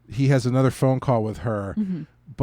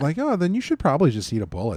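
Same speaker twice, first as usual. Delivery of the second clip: put-on, mock-sweet, churchy mom voice. Retelling a scene, the speaker quotes a woman in a sweet churchy mom voice. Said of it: "she says it in a very sweet, churchy mom voice".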